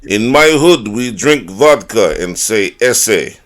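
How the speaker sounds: put-on loud jokey Hispanic-Russian accent; hammed-up tough guy accent; mock Hispanic accent. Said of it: "Hispanic accent alone".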